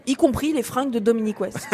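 laughing through the words; chuckling as she mocks the costumes. Real, not acted. Critic mocking the costumes, laughing.

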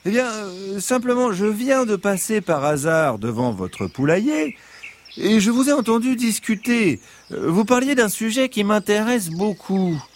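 high, sweet fox voice; gentle fox voice. Acted. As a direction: charm them as the friendly fox. Fox explains why he came.

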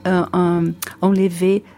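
Brazilian accent in French; French with a Portuguese accent; foreign accent in french. Real, not acted. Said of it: "mon français c'est pas assez, assez bon pour ça".

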